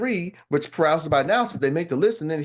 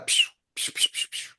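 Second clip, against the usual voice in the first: whispered rapid pew pew zaps; quiet unvoiced pew pew barrage; mock laser sound; 4 dB quieter than usual. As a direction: shoot off a volley of soft blaster noises. Rapid shield deflections.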